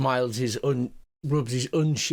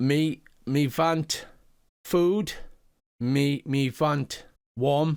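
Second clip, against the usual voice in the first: halting, broken pidgin speech in a goblin voice. Narrating a scene, voicing a goblin addressing the listener, goblin speaking broken Common. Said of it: "in his broken, broken common".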